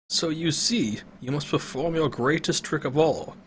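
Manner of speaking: put-on old man explaining the ring's curse; grave old wizard. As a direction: warn her patiently. Pentagon voiced, explaining.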